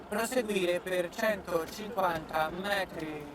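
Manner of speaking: slow, flat navigator voice; satnav voice. Acted. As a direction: read directions like a GPS. Imitates satnav directions.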